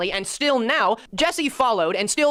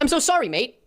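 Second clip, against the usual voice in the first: higher, chirpy British "sorry, mate"; mock British apology; 5 semitones higher than usual. Mock apology as if from the editor, light British accent. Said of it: "I'm not doing an accent".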